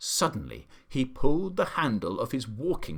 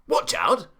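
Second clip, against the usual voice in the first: higher, louder warning; alarmed shout; 9 semitones higher, 8 dB louder than usual. A narrator's reading. The Duke at the gunshot, shouting a warning. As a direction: yell the warning. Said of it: "the Duke shouted".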